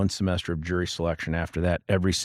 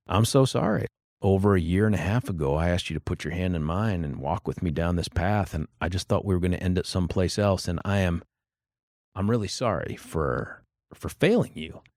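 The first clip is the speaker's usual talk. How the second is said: choked-up apology; 3 semitones lower than usual. Retold or imitated. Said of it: "felt my throat closing in on me".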